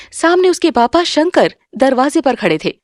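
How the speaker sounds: ordinary delivery, nothing marked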